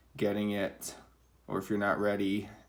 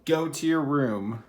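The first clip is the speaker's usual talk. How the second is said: higher, louder, slow stern order; stern command; 5 semitones higher, 5 dB louder than usual. Shown as a demonstration. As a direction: bark it like a strict parent. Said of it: "you don't always have to say commands in a mean voice".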